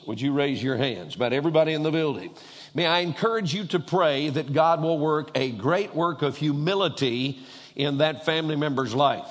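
ordinary delivery

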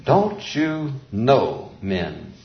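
drawn-out words, each set apart; deliberate word-by-word asking; slow, pointed question. Shown as a demonstration. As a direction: put the question to them slowly. Repeats verse slowly to the men.

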